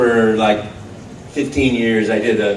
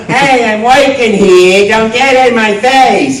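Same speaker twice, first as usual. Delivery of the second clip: hoarse, loud and higher, drawn-out tough guy; gruff, mean plumber; 7 semitones higher, 7 dB louder, slower than usual. Retold or imitated. Actor testing a character voice, gruff and hoarse. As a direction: bellow it like an angry Brooklyn workman. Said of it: "gruff and hoarse and mean".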